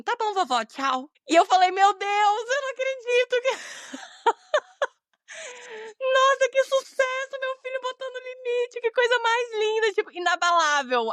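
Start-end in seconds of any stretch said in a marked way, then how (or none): 0.0-1.1 put-on a touch higher, little-boy goodbye; a hint of a calm small boy; a child calmly brushing off grandma; lightly voiced child. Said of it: "o Caê virou pra ela e falou assim". 1.7-6.0 overwhelmed with joy, almost sobbing; a mother moved to tears, laughing; laughing and crying. Real, not acted. Mother moved by son's reply. 6.0-11.1 proud mother praising her son, voice breaking; tearful joy. Real, not acted.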